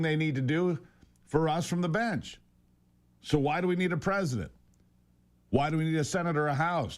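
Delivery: mock-earnest sarcasm, pausing for effect; sarcastic rant. Real, not acted. Host mocking judges who rule from the bench, sarcastic. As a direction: dryly argue the absurd as if sincere. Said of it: "That's sarcasm, obviously".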